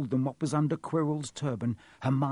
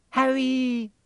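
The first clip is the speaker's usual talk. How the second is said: high, loud cry of the name; relieved cry; 12 semitones higher, 6 dB louder than usual. A narrator's reading. Hermione rushes in to injured Harry, relieved cry. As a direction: burst out with the friend's name.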